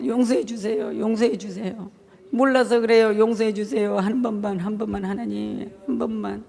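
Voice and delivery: imitating a humble whispered prayer; pleading prayer. Pastor voices his own prayer.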